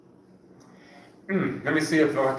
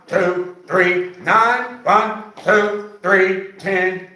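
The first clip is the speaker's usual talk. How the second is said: coach counting reps; much slower than usual. Acted. Coach counting exercise reps aloud.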